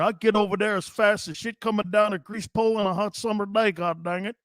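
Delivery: folksy, rambling redneck twang; redneck accent. Shown as a demonstration. Showing a listener how to talk redneck, thick accent. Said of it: "you wanna know how you talk like a redneck? Watch this".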